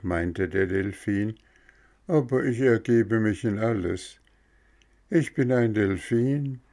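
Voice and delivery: a wise fish accepting fate; resigned dolphin. Acted.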